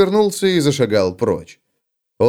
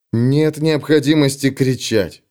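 calm; slower than usual. Acted. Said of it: "спокойно произнёс Феликс".

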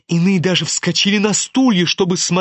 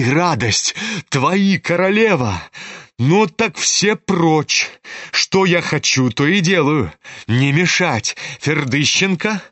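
a proud, reckless heroine taunting Ganya; defiant, mocking challenge to the suitor; Nastasya Filippovna. Nastasya's long speech. (героиня дерзко бросает вызов)

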